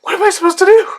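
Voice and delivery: a squeaky disbelieving plea; exasperated. Retold or imitated. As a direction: throw it back in disbelief. Exasperated at the friend.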